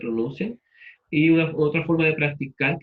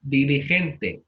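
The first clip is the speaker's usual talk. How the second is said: drawn-out word; much slower than usual. Shown as a demonstration. Teacher repeats word while checking accent.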